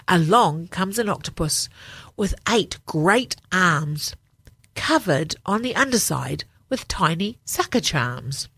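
put-on gentle read-aloud for children; story narration. A narrator's reading. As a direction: tell it like a bedtime book.

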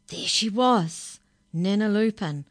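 spooky storybook reveal; dramatic reveal. A narrator's reading. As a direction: unveil her like a monster arriving. Dramatic reveal of scary Nana.

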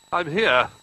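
small, high far-away call; little voice. A narrator's reading. Little Bear answers from across the room, little voice. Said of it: "cried a little voice".

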